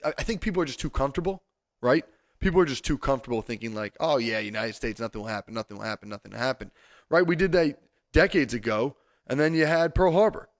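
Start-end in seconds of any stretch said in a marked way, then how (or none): 4.0-6.7 mock complacency. Host imitating people who are too comfortable, mock complacent. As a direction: imitate someone shrugging off any danger.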